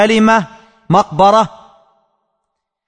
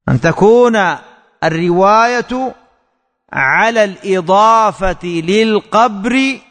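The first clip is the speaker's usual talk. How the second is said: slow dictation. Shown as a demonstration. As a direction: repeat it slowly with pauses between phrases. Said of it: "أن تكون... (repeated)". (إملاء بطيء مع وقفات بين العبارات)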